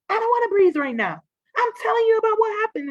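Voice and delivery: mock frantic ranting at her sister; agitated venting. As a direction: rush it out, too worked up to stop. Venting to sister, refusing to breathe.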